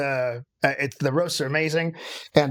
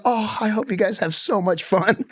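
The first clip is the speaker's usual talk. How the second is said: higher-pitched, gushing sweet well-wishing; raised voice pitch for a kindly send-off; imitated sweet well-wisher; 6 semitones higher than usual. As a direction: lightly mimic a sweet, friendly shop worker. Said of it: "They're so nice and they're so sweet".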